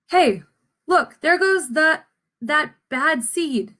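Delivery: lightly voiced bystander pointing him out; a hint of a nosy neighbour whispering about him; gossiping seed. Other seeds gossiping about the bad seed, lightly voiced.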